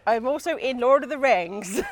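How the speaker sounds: comic rural accent, hammed up. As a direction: play a film extra with a country accent. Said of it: "I can do rural accent".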